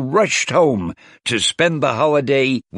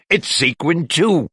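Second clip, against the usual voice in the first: higher, eager exclamation; exclaiming; 8 semitones higher than usual. Acted. Wasp delighted by her sequined gift, eager exclamation. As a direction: burst out with delight. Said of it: "Wasp exclaimed".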